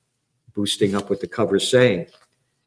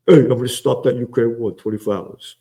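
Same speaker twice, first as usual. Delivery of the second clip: a lightly put-on Trump voice, a bit louder; mock Trump boast; 4 dB louder than usual. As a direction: brag it like Trump promising the moon. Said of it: "saying he was a peace president".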